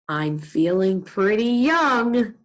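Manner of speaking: slow, drawn-out self-amused line; Mister Putter. Acted. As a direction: lightly poke fun at yourself, slowly. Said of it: "laughing at himself a little bit".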